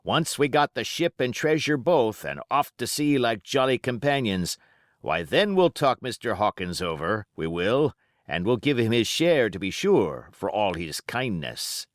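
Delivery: lightly voiced old sea cook, boastful to his mates; a hint of a cunning pirate rallying the crew; Silver, pirate voice. Silver scheming aloud to crew.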